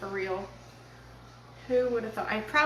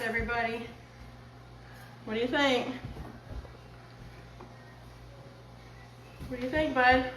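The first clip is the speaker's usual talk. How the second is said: raised voice calling across the house; yelling across the room. Real, not acted. Calling son to dinner.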